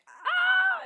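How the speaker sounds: high, slow, drawn-out cry of despair; mock meltdown wail. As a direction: wail it like you're falling apart. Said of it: "had my meltdown, was like".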